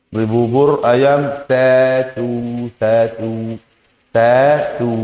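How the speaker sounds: "Beli bubur ayam satu" said slowly, every syllable clear; clear, careful ordering. Shown as a demonstration. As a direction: spell out "satu" plainly and firmly. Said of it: "Jadi harus jelas ya". (pelan dan jelas, tiap suku kata diucapkan)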